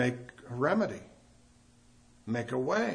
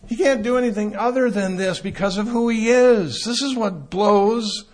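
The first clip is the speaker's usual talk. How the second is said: fervent preaching; 8 semitones higher, 8 dB louder than usual. Real, not acted. Sermon climax on God's nature.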